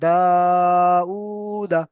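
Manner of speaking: long দা, long উ, short final দা; last vowel unstretched. Shown as a demonstration. Teacher showing where no stretch comes, short final দা. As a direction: hold দা and উ, clip the last দা. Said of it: "এখানে টান হবে না".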